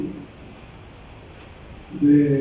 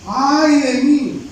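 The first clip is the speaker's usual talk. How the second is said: "¡Ay de mí!" drawn out slow, higher and louder; dismayed cry; 7 semitones higher, 4 dB louder, much slower than usual. Shown as a demonstration. Preacher acts out Isaiah seeing the King, slow high dismayed wail. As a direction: wail "¡Ay de mí!" as if doomed. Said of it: "¿Sabe esa expresión?".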